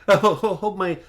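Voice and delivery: high chuckling hermit voice; cackly, high-pitched eccentric; Prattis. Acted. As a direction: stammer it through a chuckle. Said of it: "sort of a cackling".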